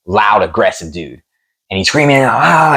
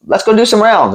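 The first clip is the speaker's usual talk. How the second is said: much higher, eager mock call; eager teammate; 12 semitones higher than usual. Fighter mimicking teammates begging to spar, eager. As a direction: pitch it up like a keen kid.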